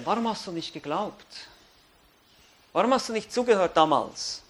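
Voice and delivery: Jesus voiced lightly, soft and grieved; sorrowful judge. Preacher voicing Jesus pleading with an unbeliever at judgment, softly grieving. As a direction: ask each why quietly, heartbroken but final.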